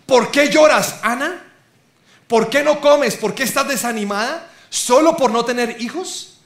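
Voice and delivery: puzzled husband questioning his crying wife; Elcana asking. Retold or imitated. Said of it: "Por eso le preguntó".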